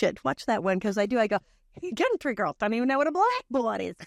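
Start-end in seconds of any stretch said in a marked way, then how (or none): 2.0-3.9 put-on New York accent. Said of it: "went into my New York accent on that line".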